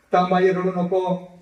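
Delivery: a son pleading with his weeping mother; rising urgent plea. Retold or imitated. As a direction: beg her to stop crying, building. Son comforting crying mother.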